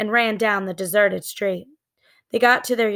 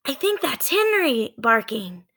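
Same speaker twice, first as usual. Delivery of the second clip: higher, lightly voiced girl; girl's voice; 4 semitones higher than usual. Annie hearing the dog at home, light girl's voice.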